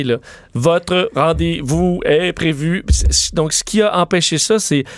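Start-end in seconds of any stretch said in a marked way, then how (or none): 0.5-2.8 slow, chopped-up synthetic voice; choppy robot voice. Retold or imitated. Host mimics a choppy old robot voice. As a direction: imitate an old choppy voice system. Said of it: "des voix très, très saccadées".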